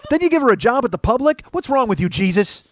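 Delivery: high-pitched indignant mock scolding; mock outrage. Comic scolding Jesus for the waitress's lot, mock outrage. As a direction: berate in exasperated, hammed-up protest.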